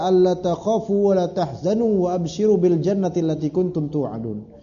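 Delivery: chanted Arabic verse, measured and melodic; Quranic recitation. Acted. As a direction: recite it like scripture.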